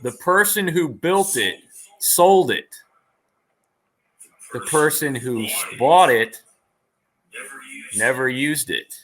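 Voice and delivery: slow, deliberate riddle delivery with long pauses; riddler posing a riddle. Acted. Guest poses a riddle to the host, slow and theatrical. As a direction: pose it line by line, pausing for suspense.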